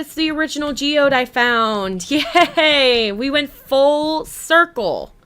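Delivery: high, loud delight at finding the geode; excited. Real, not acted. Streamer thrilled to find her old geode, loud and delighted. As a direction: cheer it out, thrilled. Finds the original geode again.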